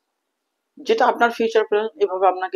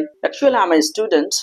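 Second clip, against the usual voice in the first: formal self-introduction; much slower than usual. Shown as a demonstration. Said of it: "আপনি এভাবে বলতে পারেন".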